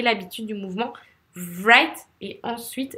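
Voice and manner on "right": "right" with a revved-up R like a motorbike; exaggerated R. Shown as a demonstration. Teacher demonstrating the motorbike trick, "right" with an exaggerated R. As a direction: overdo the buzzing start of "right". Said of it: "c'est exagéré".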